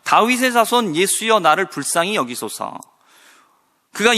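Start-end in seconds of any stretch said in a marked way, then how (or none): 0.0-2.8 crying out. Retold or imitated. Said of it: "그가 외쳐요".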